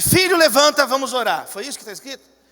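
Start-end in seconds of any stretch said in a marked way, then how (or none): 0.0-1.5 loud, higher-pitched mock rousing call; mock mother's wake-up call. Preacher imagining Mary waking Jesus to pray, mock wake-up call. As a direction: call out as if waking a sleeping son.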